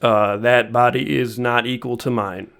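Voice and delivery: lightly voiced matter-of-fact deadpan; a hint of a stolid, businesslike impression; Hank Hill. Man denying the morgue body is his, lightly acted matter-of-factness. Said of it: "Hank Hill matter-of-factness".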